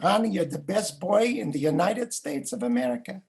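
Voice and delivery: lightly voiced grandfather with a Russian accent; doting old immigrant's Russian-accented praise. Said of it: "say to me in his Russian accent".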